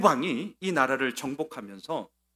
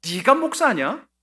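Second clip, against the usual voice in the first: higher, slower sneer; mocking jab; 8 semitones higher, 6 dB louder, slower than usual. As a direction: drag out the sarcastic question. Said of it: "얼마나 비꼬는 얘기인지". (높고 느리게 비꼬는 말투)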